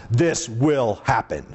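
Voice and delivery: low, slow, deliberate pronouncement; slow and low, as a solemn warning; deep voice. Shown as a demonstration. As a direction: drop it deep and weighty. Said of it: "my deep voice".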